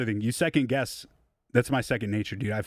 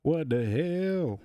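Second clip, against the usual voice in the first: drawn out slowly, puzzled and higher; baffled what the hell; 5 semitones higher, much slower than usual. Real, not acted. Stretched, baffled at his new mouse refusing to work. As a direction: stretch the words out in disbelief. Mouse suddenly stops working.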